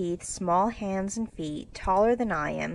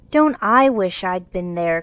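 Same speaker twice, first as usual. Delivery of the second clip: loud, longing exclamation; eager cry; 6 dB louder than usual. Acted. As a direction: wish it out eagerly. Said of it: "cried Jo".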